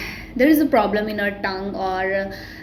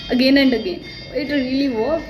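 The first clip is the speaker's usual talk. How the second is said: real amazement; 3 semitones higher, faster than usual. Real, not acted. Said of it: "I'm so shocked".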